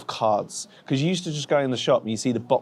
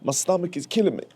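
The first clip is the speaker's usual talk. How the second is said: higher, moaning from a stomach ache; pained whine; 6 semitones higher than usual. Real, not acted. Belly-aching vlogger groans in pain to camera. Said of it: "I'm dying".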